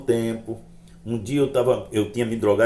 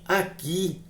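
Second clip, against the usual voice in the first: slow, measured pronouncement with pauses; halting, weighty retold message; mysterious voice; 2 semitones higher, 5 dB quieter, slower than usual. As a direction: quote an unseen voice solemnly, slowly. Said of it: "a voz dizia assim".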